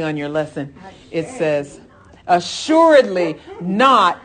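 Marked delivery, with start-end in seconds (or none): 2.3-4.2 "Assuredly not!" loud and slow, hammered home with a falling finish; exclamation point. Shown as a demonstration. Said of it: "Exclamation point".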